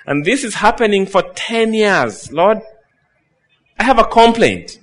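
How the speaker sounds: pleading complaint. Retold or imitated. Believer complaining to God.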